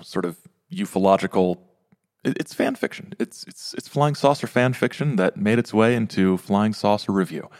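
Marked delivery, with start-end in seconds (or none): 2.2-3.9 conspiratorial whispered aside; whispering. Real, not acted. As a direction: whisper it like a secret. Whispered aside about the story.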